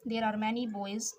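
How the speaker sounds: put-on there are many boys read very slowly, word by word; slow dictation. Shown as a demonstration. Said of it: "teacher reads sentence slowly". (there are many boys को बहुत धीरे, एक-एक शब्द अलग करके पढ़ना)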